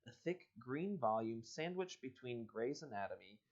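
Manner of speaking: reading the book's dialogue aloud; story reading. Acted. Host reading a choose-your-own-adventure to listeners, storyteller voice. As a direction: read it like an adventure book. Reads the next chapter.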